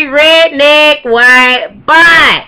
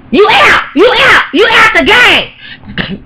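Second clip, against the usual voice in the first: put-on kid shouting; 9 semitones higher, slower than usual. Kid ejecting others from game.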